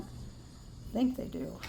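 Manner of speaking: soft slow whisper. Real, not acted. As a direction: whisper it slowly, half to yourself. Aside while watching animals.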